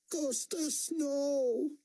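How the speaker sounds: a panicked high cry that swells; frightened scream. A narrator's reading. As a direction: shriek to stop her son. Mother screams at armed son.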